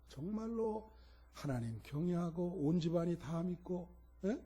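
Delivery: softly reenacted plea to God; subdued, questioning prayer; retold prayer. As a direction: put it to God quietly, as if thinking aloud. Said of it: "어제 준비하면서 그랬어요".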